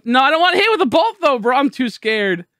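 high, anxious protest easing off; scared. Real, not acted. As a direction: protest nervously, then settle.

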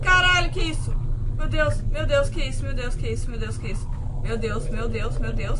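loud terrified yelling; panicked screaming. Real, not acted. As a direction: shriek in real panic at the monster. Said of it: "tô morrendo de medo, não consigo falar". (gritando em pânico, apavorado de verdade)

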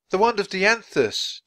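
high-pitched cry of discovery; excited exclamation. A narrator's reading. Jack and Annie see the wand of Dianthus, excited exclamation. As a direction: exclaim it as a thrilling find.

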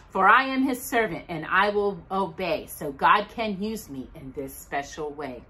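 put-on gentle rhyming read-aloud for kids; reading a poem to children. Reading the poem to the children at church, gentle read-aloud. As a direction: read the verses like a storybook.

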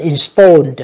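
installed ending in a clear d sound. Shown as a demonstration. Teacher showing students the ed ending, installed with d. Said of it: "âm đờ nha các bạn".

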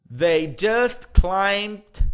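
very slow, loud, "just" pushed hard; stress on just. Shown as a demonstration. Teacher showing students the emphasis on "just". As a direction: lean on "just" and stretch the phrase. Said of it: "pra dar o ênfase".

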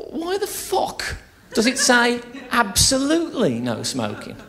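slow, baffled inner voice; indignant thought. Retold or imitated. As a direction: puzzle over it aloud, slowly, drifting off. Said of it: "I thought to myself".

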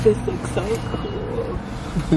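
slow, low and drawn out. Shown as a demonstration. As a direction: stretch each word slowly. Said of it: "Did you just say that again?".

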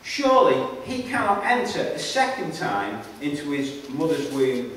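measured public Bible reading; emphatic openings, falling phrase endings; scripture reading. A narrator's reading. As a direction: read it out deliberately, phrase by phrase. Reads the Bible passage aloud.

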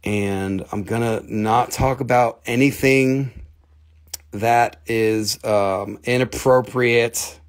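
slow, deliberately tame suburban voice; slow down and sound proper and harmless; normal suburban voice. Pretend. Promising the chat to behave, in a slow, tame suburban voice. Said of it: "talk in my normal suburban voice".

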